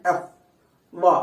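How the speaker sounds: ఎఫ్ with lip touching upper teeth; isolated labiodental ఎఫ్, then వ; correct pronunciation. Shown as a demonstration. Teacher shows students how F is really said, correct pronunciation. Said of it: "correct pronunciation అంటే".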